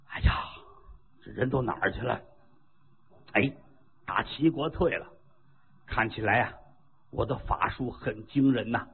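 a dazed monk talking himself into his own greatness; boastful monk. Acted. Monk waking on the empty battlefield, smug low murmur.

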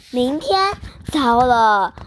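sudden jump up in pitch; startled cry. Acted. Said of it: "谢公文惨叫一声".

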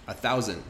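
"a thousand" with the A and N reduced to "un". Shown as a demonstration. Teacher demonstrating the vowel of "thousand". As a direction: say "thousand" as "thouzun" with a hum. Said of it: "how I pronounce the A and the N".

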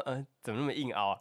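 laughing. Retold or imitated. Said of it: "我想说，".

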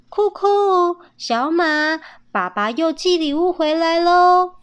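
put-on high, loud call to the kids. A narrator's reading. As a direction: call them from across the yard. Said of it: "妈妈呼唤着".

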